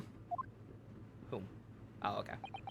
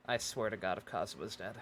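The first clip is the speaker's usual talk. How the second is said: quiet threat; 13 semitones lower, 9 dB quieter than usual. Real, not acted. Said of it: "muttered threat".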